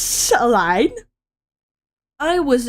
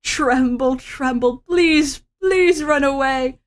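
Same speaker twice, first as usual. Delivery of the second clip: shouted warning; 2 semitones higher, slower than usual. Acted. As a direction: call out the warning, rising to a yell. Character crying out warning.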